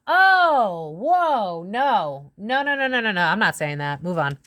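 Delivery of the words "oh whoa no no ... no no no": long high "oh" sliding down into rapid no's; alarmed refusal. Real, not acted. Reader refusing to say what she sees, alarmed. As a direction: recoil in shock, pitched up.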